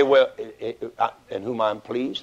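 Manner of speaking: halting, unsure mumble; hesitant stammer. Shown as a demonstration. Preacher mocking a hesitant God. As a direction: stumble over it like a weak father. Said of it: "he didn't say".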